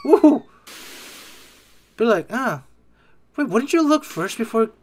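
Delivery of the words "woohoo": high, loud woo; playful whoop. Pretend. Player on falling from three floors, loud mock whoop. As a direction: let out a quick high whoop.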